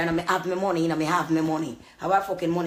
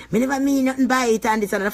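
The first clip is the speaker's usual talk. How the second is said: furious; 8 semitones higher than usual. Real, not acted. Ranting to the camera about a hypocrite woman, furious. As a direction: spit it out in real anger.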